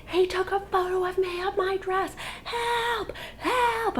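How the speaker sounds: thin high wail at talking volume; imitated scream. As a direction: re-enact a panicked cry for help. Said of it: "And I'm screaming".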